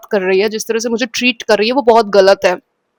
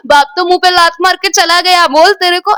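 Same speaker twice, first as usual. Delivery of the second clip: mom's taunt; 5 semitones higher, 3 dB louder than usual. Retold or imitated. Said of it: "ऐसे mummy taunt मारती थी".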